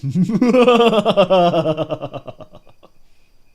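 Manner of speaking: loud booming villain cackle; loud evil cackle; evil laugh. Pretend. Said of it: "With an evil laugh right after".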